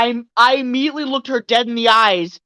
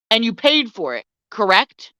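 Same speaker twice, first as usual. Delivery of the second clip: measured, mildly condescending question; lightly condescending, pausing before the tag question; patronizing. Retold or imitated. Store worker corners the customer, mildly patronizing. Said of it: "stop fucking patronizing me".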